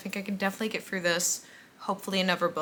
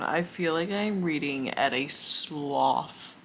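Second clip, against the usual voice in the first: sleepy; 3 semitones lower, much slower than usual. Real, not acted. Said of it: "I'm so tired".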